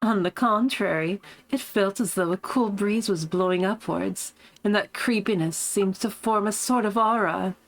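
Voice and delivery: lightly voiced smug narrator; a touch of posh self-satisfaction. Streamer retrying her character's voice, a touch smug and posh. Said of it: "a smug, posh kind of voice".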